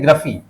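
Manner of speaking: ग्रफी with a short, reduced first vowel; shown pronunciation. Shown as a demonstration. Teacher asks how the suffix is read, demonstrates ग्रफी as "gruh-fee". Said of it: "इसको क्या पढ़ते हैं?".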